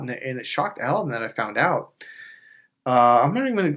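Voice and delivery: usual speaking voice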